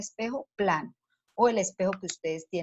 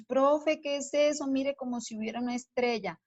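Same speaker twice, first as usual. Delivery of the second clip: put-on higher, eager child's voice calling the teacher; excited children; 6 semitones higher than usual. Children calling their teacher about the star, higher and excited. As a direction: play the kids pointing at the ceiling, excited. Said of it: "Entonces los niños".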